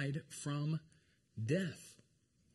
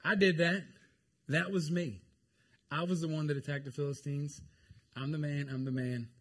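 boastful Saul. Acted. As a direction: crow about it like a proud king. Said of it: "what did Saul do being filled with pride".

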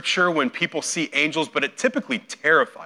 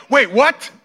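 confused surprise; 9 semitones higher, 7 dB louder than usual. Retold or imitated. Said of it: "And you're like".

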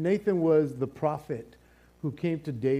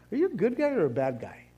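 puzzled question; 6 semitones higher, faster than usual. Pretend. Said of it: "that you're going".

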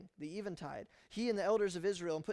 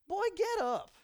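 much higher, loud, sharp command; stern rebuke; 13 semitones higher, 6 dB louder, slower than usual. Acted. God rebuking Joshua, stern command. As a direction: bark it at a lazy boy. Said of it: "He didn't say it that way".

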